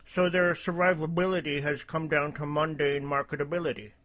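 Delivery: lightly voiced droopy cartoon dog. Reading El Cid's post aloud, light droopy dog voice. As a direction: read it with a hint of a droopy dog. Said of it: "I'll do a droopy dog voice".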